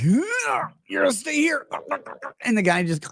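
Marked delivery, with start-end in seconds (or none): 0.0-1.7 mock menacing. Imitating subway chokehold scene.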